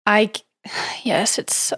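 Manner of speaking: sighing whisper. Real, not acted. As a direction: breathe the yes out softly. Sad about the movie.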